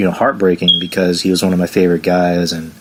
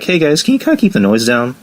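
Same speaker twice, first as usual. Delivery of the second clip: a bit higher, timid and awkward ask; awkward request; 6 semitones higher than usual. Retold or imitated. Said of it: "awkwardly like".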